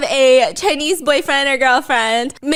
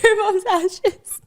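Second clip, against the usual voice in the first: deadpan punchline; 8 semitones higher, slower than usual. Pretend. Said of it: "Ask me what I'm doing".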